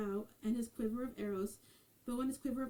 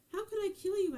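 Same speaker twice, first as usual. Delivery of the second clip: pitched-up, louder cry of dismay; shocked protest; 9 semitones higher, 4 dB louder, faster than usual. Acted. King's son protesting to Auburn Mary, shocked. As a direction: recoil at the very idea of killing her.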